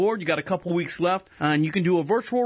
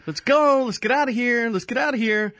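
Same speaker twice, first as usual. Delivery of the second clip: impatient passenger; 5 semitones higher than usual. Retold or imitated. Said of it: "Let's get up to the".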